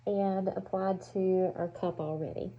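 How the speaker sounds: muffled through a respirator; talking through a face mask, muffled. Real, not acted. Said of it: "my voice is already muffled".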